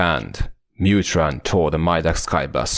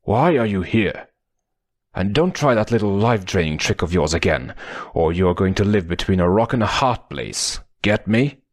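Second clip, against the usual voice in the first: angry; 2 semitones higher than usual. Acted. Pohatu threatening his attacker.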